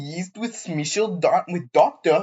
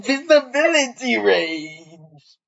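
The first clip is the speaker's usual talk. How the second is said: haughty shout; 4 semitones higher than usual. Acted. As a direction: shoo the peasant away like a spoiled noble. Haughty character shoos away peasant.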